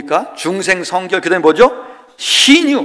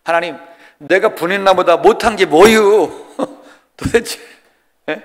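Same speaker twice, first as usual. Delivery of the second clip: mock complaint to God; 3 semitones higher than usual. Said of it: "하나님께 가서 따져야 되겠다".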